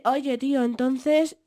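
lightly imitated Spain Spanish; a touch of a Madrid-style "tío" accent; Castilian Spanish accent. Guest mimics how Spaniards talk, light Castilian accent. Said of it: "te hablan así".

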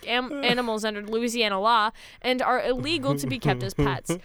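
lively read-aloud news report. Acted. Host reading co-hosts a kangaroo story, news read. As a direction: read it out like a newsreader.

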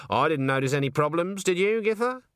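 put-on a touch of innocent old witch; stern old witch. Granny asks Nanny, mock innocent. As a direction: sweetly deny any trouble.

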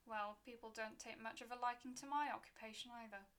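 a hint of a rustic old gravedigger; folksy keeper with a crooked grin; gruff graveyard keeper.

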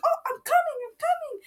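put-on high, childlike reply; little kid calling back. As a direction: answer like an eager six-year-old. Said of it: "I was like".

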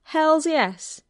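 high, emphatic exclamation; excited cry. A narrator's reading. Neighbour accepting company for a beer, excited cry. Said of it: "who cried".

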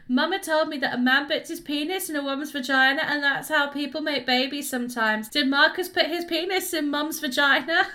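a hint of an inquisitive kid; child's part. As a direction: lightly imitate a child reciting facts. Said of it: "The child just goes".

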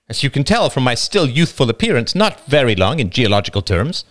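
a hint of the wife, wry. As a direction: deflect with a dry joke. Wife joking.

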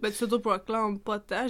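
French with an English accent; anglicized French vowels. Real, not acted. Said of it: "j'ai un accent anglais".

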